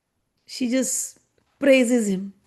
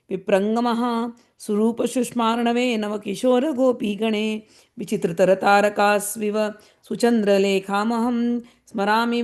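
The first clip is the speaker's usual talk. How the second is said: measured, even verse recital in Sanskrit; Sanskrit verse recitation. Acted. Teacher recites a Sanskrit sloka to the class, measured recital. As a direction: recite the sloka steadily, like scripture.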